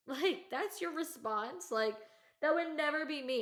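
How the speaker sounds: real incredulous laugh; laughing disbelief. Real, not acted.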